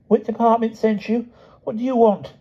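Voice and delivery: high, cool, posh challenge; cool hostility; a posh girl, coldly hostile; composed hostility. A narrator's reading. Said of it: "with composed hostility".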